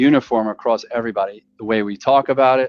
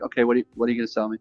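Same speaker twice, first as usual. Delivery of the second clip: skeptical inner voice; 4 dB quieter, much faster than usual. Retold or imitated. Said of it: "I'm like".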